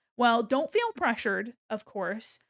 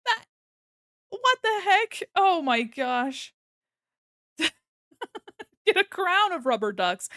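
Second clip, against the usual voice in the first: high, loud giddy disbelief; bursting with happy shock; overwhelmed delight; 7 semitones higher, 6 dB louder, slower than usual. Real, not acted. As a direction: streamer overwhelmed by a donor's generosity. Overwhelmed by a donation.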